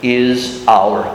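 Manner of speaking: whispered slowly in awe; awed whisper. Acted. Preacher voicing Job's awed cry, whispered slowly. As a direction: breathe it out in hushed wonder. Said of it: "he cried out".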